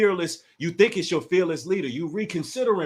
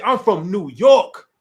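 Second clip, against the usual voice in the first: mocking quote; 2 semitones higher, 7 dB louder, slower than usual. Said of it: "you said".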